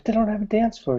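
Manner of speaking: high-pitched woman's protest; objecting lady. Acted. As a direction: pitch it up as a puzzled girlfriend. Lady objects to her man.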